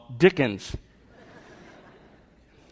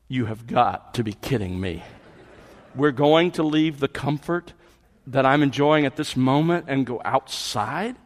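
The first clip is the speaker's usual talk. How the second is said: deadpan disbelief; 3 dB quieter than usual. Pretend. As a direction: play a dog who can't believe the request. Acting out the dog's incredulous look.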